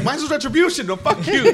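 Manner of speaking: high, loud mock anger; laughing imitation of a furious retort; hammed-up outrage through giggles; upset Michael. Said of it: "'cause Michael's so upset".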